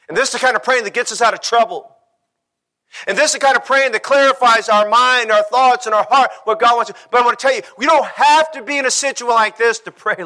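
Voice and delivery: driving sermon delivery; impassioned preaching. Acted. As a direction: preach it with rising urgency. Preaches at full force.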